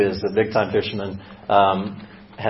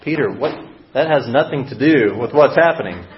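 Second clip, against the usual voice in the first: higher and louder, baffled disbelief; incredulous; 6 semitones higher, 4 dB louder than usual. Retold or imitated. Preacher reacting in disbelief to Peter after the huge catch. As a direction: react like he's missed the point. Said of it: "I'm like".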